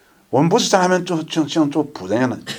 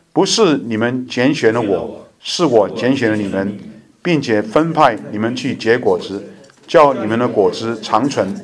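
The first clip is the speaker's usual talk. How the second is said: slow, measured, solemn Bible reading; slow scripture reading; 2 semitones lower, slower than usual. Acted. Pastor reads John fifteen aloud to the church, slow and solemn. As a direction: read each phrase deliberately so the flock can follow.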